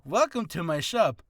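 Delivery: a slightly brighter shopkeeper welcome; merchant greeting. Shown as a demonstration. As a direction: greet the customer like a friendly merchant. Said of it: "Oh, it's, no".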